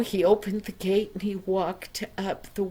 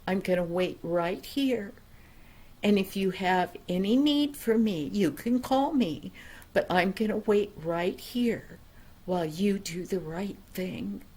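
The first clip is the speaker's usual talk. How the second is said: calm firm father; 3 semitones lower than usual. Acted. Father at the gate.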